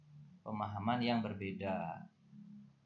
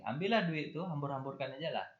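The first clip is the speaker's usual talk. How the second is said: sarcastic parent; 4 semitones higher than usual. Retold or imitated. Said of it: "Atau dia mengatakan begini".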